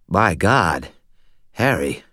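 thick, slurred voice through a blocked nose. A narrator's reading. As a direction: talk as if holding your nose, thick and slurred. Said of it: "His voice was thick and slurred, as if he were holding his nose".

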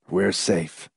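soft, prayerful relief; prayerful avidity. A narrator's reading. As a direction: breathe it softly like a grateful prayer. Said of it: "with prayerful avidity".

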